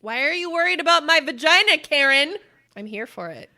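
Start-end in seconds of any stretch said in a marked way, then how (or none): 0.0-2.4 loud, fast, high mock yell at Karen; loud shout. Yelling a comeback at a nosy Karen in public, loud and fast. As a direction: belt it out to shame a nosy stranger. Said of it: "as loud as humanly possible".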